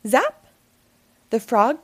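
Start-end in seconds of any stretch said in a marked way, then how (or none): 0.1-0.5 a sharp spell crack, louder; loud zap. A narrator's reading. Narrator zapping the spell loudly. Magic sound effect.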